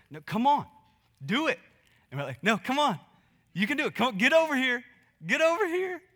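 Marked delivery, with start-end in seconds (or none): 0.1-1.6 higher, louder impatient push; frustrated urging. Retold or imitated. Parent losing patience with a toddler: louder, frustrated urging. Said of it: "we get kinda frustrated". 2.4-6.0 high, loud, rising impatience; frustrated urging. Retold or imitated. Parent losing patience with a toddler: high, loud frustrated calls. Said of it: "we get kinda frustrated".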